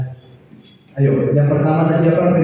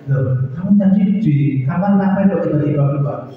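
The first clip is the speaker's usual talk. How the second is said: surprised question. Retold or imitated. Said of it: "saya tanya".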